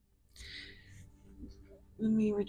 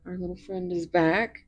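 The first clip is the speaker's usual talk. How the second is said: ordinary talk, nothing marked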